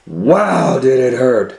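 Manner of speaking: a storyteller's loud, high-pitched wow; excited exclamation. A narrator's reading. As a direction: burst out with the pain of the sting. Bee sting climax.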